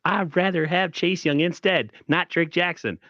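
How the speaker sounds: slow raspy half-sung lyric. Shown as a demonstration. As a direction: rasp it out slowly like a song. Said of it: "With my raspy voice".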